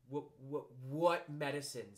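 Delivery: halting stammer, then drawn-out words. Acted. Piglet hearing of medicine from Kanga, stammering. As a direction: stumble on the first word.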